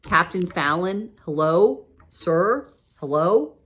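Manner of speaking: loud, high, insistent calls; girl shouting at a sleeping captain to wake up; calling out loud. A narrator's reading. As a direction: lean over the desk and shout to wake him. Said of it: "I called louder".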